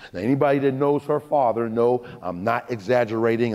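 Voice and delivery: usual speaking voice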